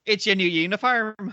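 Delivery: careful second take of the quote; movie line redo. Shown as a demonstration. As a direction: say the line slowly, the right way. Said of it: "say it right".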